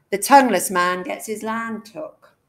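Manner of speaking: a bit of Cornish accent. Shown as a demonstration. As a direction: slip into Cornish for the verse. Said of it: "forced into a bit of Cornish here".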